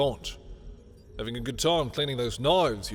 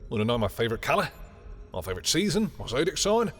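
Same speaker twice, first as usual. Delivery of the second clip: mocking questions; 3 semitones higher than usual. Ridiculing a visitor's wish to know me better, mocking questions. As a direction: rattle off mock-eager questions, pitch rising.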